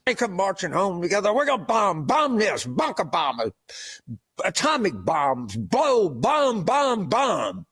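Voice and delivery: chanted rah-rah with bomb bomb bomb; mocking pundit chanting about bombs; mock war cheer. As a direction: ham up a gung-ho war chant. Same war chant mocked again.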